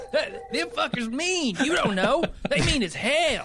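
worked up. Acted. Heated about possums.

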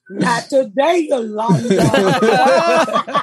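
very slow drawn-out mock voice, laughing; hammed-up slow taunt; crack baby voice. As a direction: stretch it out slowly like a sassy kid. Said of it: "the crack baby's like".

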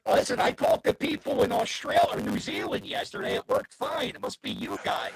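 distorted, glitchy call audio; robot voice. Real, not acted. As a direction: voice breaking up over a bad connection. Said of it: "It was a robot voice mixed with a Bridesburg voice".

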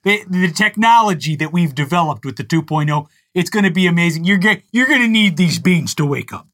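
oversell the product with a chuckle; mock Mike Lindell pitch. Host parodies the CEO selling beans and meth, lightly voiced. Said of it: "I'm with Comrade Mike on this".

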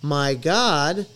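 retold amazement. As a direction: relive the astonished discovery. Retold amazement hearing the songs.

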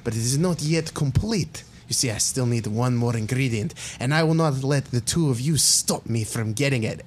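scientist confessing his transformation plan to the players; scheming villain monologue. Acted.

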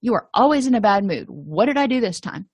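mild mock irritated snap back; a hint of exasperated parent; grumpy, defensive. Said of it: "defensive and grumpy and aggressive".

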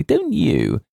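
put-on high, eager girlish question; ecstatic. A narrator's reading. Girl seeking James's agreement, ecstatic. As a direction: ask eagerly, pitched high. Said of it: "clasping her hands ecstatically".

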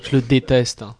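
talking with a blocked nose; stuffy, blocked-nose voice. Real, not acted. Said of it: "Vas-y, mouche-toi, Dany, on t'entend pas".

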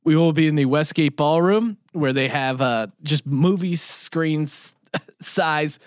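tipsy and giggly. Real, not acted. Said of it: "Sorry, I'm a little tipsy".

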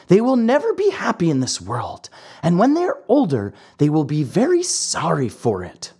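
put-on an old, patient cricket introducing himself; wise talking cricket. Cricket's held voice.

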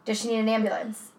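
lightly acted emergency dispatcher; a hint of level, businesslike call-taker; monotone dispatcher. Co-host playing dispatcher to a caller, mildly monotone. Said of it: "I did my best monotone voice".

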